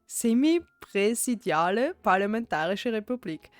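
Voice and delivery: amused reading in Austrian dialect. Shown as a demonstration. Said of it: "how you would s-, er, speak in the dialect".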